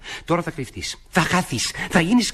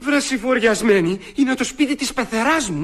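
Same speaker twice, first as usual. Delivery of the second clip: high, slow, drawn-out reproach; exasperated dismay; 6 semitones higher, slower than usual. Acted. Master tells the girl it is his mother-in-law's house, exasperated. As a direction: stretch each word in aghast exasperation.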